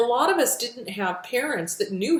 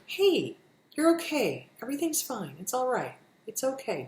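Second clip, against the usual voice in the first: softer, gentle reassurance; self-soothing talk; 4 semitones higher, 4 dB quieter than usual. Shown as a demonstration. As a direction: hush yourself kindly. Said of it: "practice when you're feeling ... unsettled".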